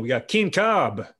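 announcer intro. Acted. Host introducing guest to audience.

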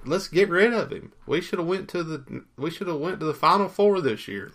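mildly hammed-up fan panic, pitch lifted; mock freaking out. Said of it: "They're freaking out. They're like".

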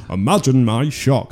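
slow, lightly put-on Yorkshire pundit; Paul Joseph Watson. Podcaster mocking a right-wing Yorkshire pundit, lightly imitated. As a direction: draw it out as a mocking quote. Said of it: "'cause he goes".

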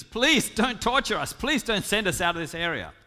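loud, insistent begging; pleading. Acted. Demons begging Jesus to spare them, loud pleading. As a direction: plead loudly, stretching out the first plea. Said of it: "The demons plead with Jesus".

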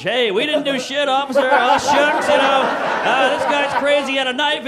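Catholic schoolboy. Retold or imitated. Teens answering the officer, mock Catholic schoolboy innocence. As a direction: plead innocence like a privileged good boy. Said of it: "Catholic schoolboy, white privilege".

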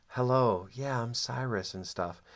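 lightly voiced mellow hippie guy; a hint of a laid-back hippie greeting; peace love hippie. Mimicking the gentle-sounding co-leader Cyrus, lightly mellow hippie voice. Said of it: "very kind of peace, love, and hippie".

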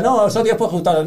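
mock Jesus. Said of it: "Jesucristo en plan".

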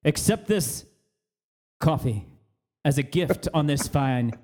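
mock Godfather-style favour speech in a wandering JFK accent; a grand, slightly slowed Boston-Kennedy accent, drifting all over the place; JFK-type accent. Offering a coworker coffee, in a hammed-up JFK accent. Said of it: "a J F K type accent".

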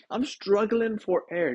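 short of breath, gasping between words. Real, not acted. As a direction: talk while struggling for air.

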